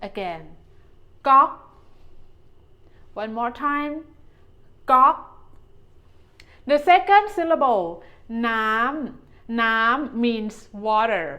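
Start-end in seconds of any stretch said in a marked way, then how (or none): 1.3-1.5 ก๊อก like "knock" but starting with G; G sound start. Shown as a demonstration. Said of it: "start with the G sound". 4.9-5.2 ก๊อก rhyming with "knock", opening on G; G sound start. Shown as a demonstration. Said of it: "start with the G sound". 9.6-10.2 น้ำ said with a falling pitch. Shown as a demonstration. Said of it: "It is a falling tone".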